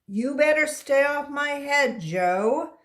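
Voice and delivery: mild warning. Acted. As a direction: warn your best friend off, half-joking. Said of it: "he warned".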